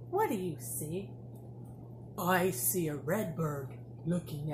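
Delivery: sing-song picture book reading; reading to a toddler. Acted. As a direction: read it bright and bouncy for little kids. Teacher reads picture book to class.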